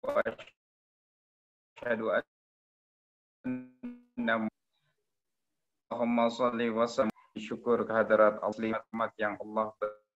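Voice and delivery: choppy, broken-up audio; words cutting in and out; call dropping out. Real, not acted. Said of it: "suaranya putus-putus".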